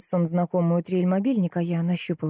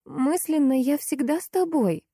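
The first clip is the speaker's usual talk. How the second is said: cooing; 7 semitones higher than usual. A narrator's reading. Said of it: "проворковала я".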